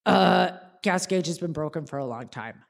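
dad chuckling a confession; sheepish laugh. Retold or imitated. Dad admits broken gauge.

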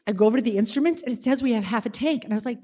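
ordinary talk, nothing marked

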